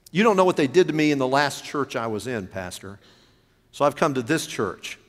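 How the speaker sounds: aggrieved churchgoer. Retold or imitated. Preacher voices a churchgoer's grievance.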